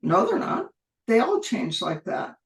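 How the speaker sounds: cheerfully correcting the expert; perky. Retold or imitated. Herself perkily contradicting the doubtful expert, upbeat. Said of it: "I was very perky when I said".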